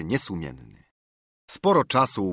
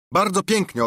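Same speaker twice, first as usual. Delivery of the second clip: sarcastic sneer; 11 semitones higher, 6 dB louder than usual. Acted. George sneering at Silver.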